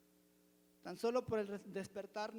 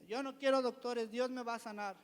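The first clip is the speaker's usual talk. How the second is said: louder, higher insistence, looking back on it; defiant retold refusal; 3 semitones higher, 6 dB louder than usual. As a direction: protest firmly, as he did then. Retelling his own refusal of doctors.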